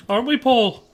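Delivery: Liverpool pop-band accent. Shown as a demonstration. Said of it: "a vaguely Liverpool-band accent".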